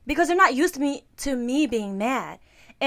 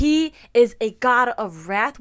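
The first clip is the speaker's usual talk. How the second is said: slow, louder sermon voice; mock church preaching; 7 dB louder, slower than usual. Quoting the church they grew up in, slow and louder. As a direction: intone it like a stern preacher. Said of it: "it was more like".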